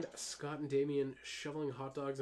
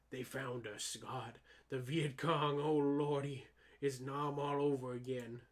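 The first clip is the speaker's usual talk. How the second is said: panicked war veteran. Acted. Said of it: "I'm just doing voices".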